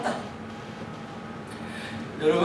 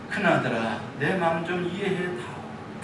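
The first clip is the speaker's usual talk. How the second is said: gentle plea; 2 semitones lower, 6 dB quieter than usual. Acted. 아버지의 간청.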